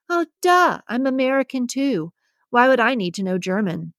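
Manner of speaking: "Oh, duh" jumps way up, mocking; eye-rolling duh. Kim mocks Julia's German question, eye-rolling duh. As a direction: scoff like the answer is obvious. Kim rolls her eyes.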